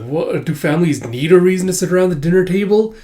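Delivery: high, loud indignant question; challenging retort. Acted. Villain retorting at the dinner table, indignant challenge. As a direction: throw it back as a challenge.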